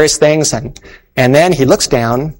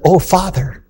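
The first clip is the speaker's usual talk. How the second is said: put-on tearful little girl; 7 semitones higher, slower than usual. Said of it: "as only a little girl can".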